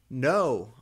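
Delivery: loud melodramatic mock scream; hammed-up loud cry of no; sexy scream. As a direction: wail it out like a gothic heroine. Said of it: "I screamed sexily".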